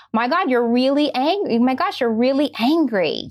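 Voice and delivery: acted parent validating big feelings; empathetic parent. Parent reflecting an angry preschooler's feeling back, empathetic and emphatic. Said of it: "start to reflect back what emotion they're feeling".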